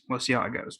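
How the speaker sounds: quiet aside repeating "We'll see how it goes". Real, not acted. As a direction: mutter it back to yourself softly. Repeats closing line differently.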